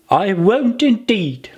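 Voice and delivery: hasty promise. Acted. Alice promising the mouse, lightly girlish and hurried. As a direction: hurry to agree.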